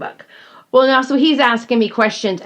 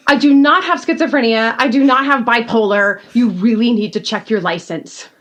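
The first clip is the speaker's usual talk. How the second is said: Southern diva scolding. Retold or imitated. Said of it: "my inner Southern diva comes out".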